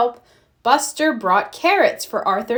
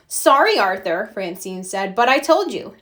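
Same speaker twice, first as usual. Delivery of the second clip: put-on taunting girl. Francine taunting Arthur.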